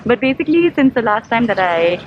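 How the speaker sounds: muffled behind a mask; talking through a mask, muffled; through a face mask. Real, not acted. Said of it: "I don't know if you guys can hear me through this mask".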